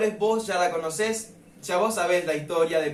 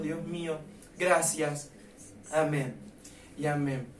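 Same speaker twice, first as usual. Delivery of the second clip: spoken prayer. Acted. Opening prayer to God.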